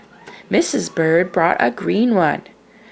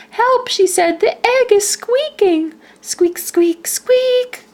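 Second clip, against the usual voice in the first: high, louder alarmed bird voice; 4 dB louder than usual. A narrator's reading. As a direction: panicky cry for help. Missus Bird panics, egg squeaking.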